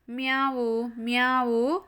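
lightly voiced kitten mew; drawn-out storybook meows; kitten meowing. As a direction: mew like a little cat in a story.

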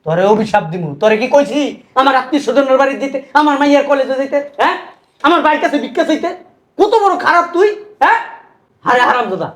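irate scolding with jumps in pitch; angry yelling. Acted. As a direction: berate him in indignant questions. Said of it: "গরুর মতো চিল্লাও কেন?". (রাগে চেঁচিয়ে বকা)

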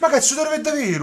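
high loud shocked question; shocked and grossed out; disgusted disbelief. Real, not acted. Disgusted at sweaty character. (incredulità disgustata)

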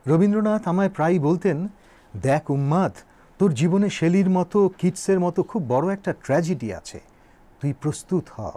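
measured, solemn reminiscence; flowing oratory with deliberate pauses; formal speech recitation. Acted. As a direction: recite it as a poet's address. Recites Nazrul's speech aloud.

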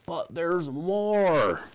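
slow, high doctor's warning. A narrator's reading. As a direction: draw it out like a solemn doctor. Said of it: "the doctor said".

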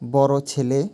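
বড় ছেলে with বড় hit firmly; word stress demo. Shown as a demonstration. Teacher showing word stress on বড় ছেলে, pressing বড়. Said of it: "বড় শব্দে ডয় বিন্দু রাতে শ্বাসাঘাত".

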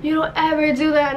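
mildly stern, reenacted warning; retold scolding. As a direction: imitate a brother's reprimand. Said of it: "he was scolding me".

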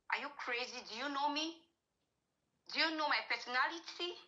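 mildly acted haughty challenge; retold arrogance. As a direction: imitate someone pulling rank. Retold arrogant man confronting her.

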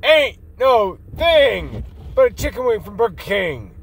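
emphatic saying. Shown as a demonstration. Insisting to doubting viewers what the saying means, emphatic. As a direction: sell the catchphrase hard. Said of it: "That's what that means".

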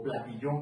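"platillo" with the stress moved to the last syllable, pla-ti-LLO; shifted word stress. Shown as a demonstration. Drum teacher contrasting word accents, "platillo" stressed as pla-ti-LLO. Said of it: "No es lo mismo decir".

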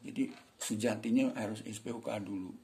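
ordinary delivery

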